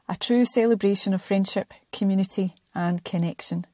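measured, welcoming intro read; scripted podcast intro. Acted. Host invites listeners to join the chai sessions, scripted intro.

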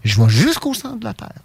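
plus aigu, imitation de fillette; reprends-la en voix aiguë d'enfant; fillette enjouée. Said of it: "elle refait encore le même geste". (petite voix aiguë d'enfant)

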